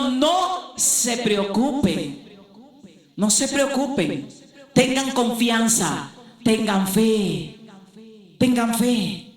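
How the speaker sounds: slow, drawn-out words of Christ; measured preacher's quote, stretched out; slow reassurance. Retold or imitated. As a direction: quote it slowly, letting each phrase settle.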